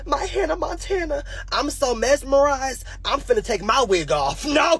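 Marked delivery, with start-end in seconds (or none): 0.0-1.2 awestruck. Retold or imitated. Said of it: "I'm like".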